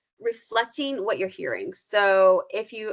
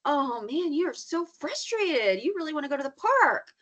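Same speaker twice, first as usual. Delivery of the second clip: empathetic reflection; 6 semitones higher than usual. Shown as a demonstration. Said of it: "and then if you're like".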